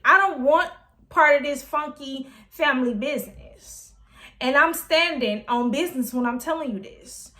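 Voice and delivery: a lightly voiced daughter telling off her mother; defiant stand. Voicing Ricky standing up to mama.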